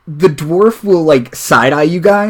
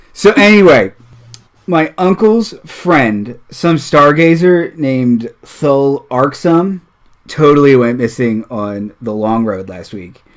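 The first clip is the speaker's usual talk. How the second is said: failed stage whisper. Acted. Dwarf leaning in to tiefling friend, failed stage whisper. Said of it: "almost in a stage whisper".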